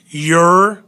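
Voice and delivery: "ure" said alone as yer, falling; syllable sounded out. Shown as a demonstration. Teacher isolating the final syllable, "ure" as yer.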